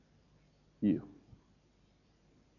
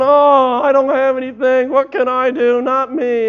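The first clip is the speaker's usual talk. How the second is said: doubting listener; 10 semitones higher, 11 dB louder than usual. Retold or imitated.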